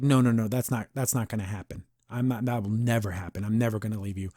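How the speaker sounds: low, hushed fatherly promise; soft reassurance. Retold or imitated. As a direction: reassure a child gently, voice dropped low. Father reassures his frightened daughter.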